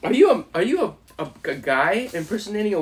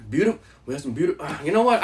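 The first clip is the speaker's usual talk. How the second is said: Trump voice; much faster than usual. Pretend. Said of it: "Do Donald Trump".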